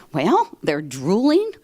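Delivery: slow, hesitant imitation of a baffled husband; mock disbelief. Wife voicing her husband's answer about the lobby crowd, mock baffled. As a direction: drag it out as if reluctant to explain. Retells husband describing strange people.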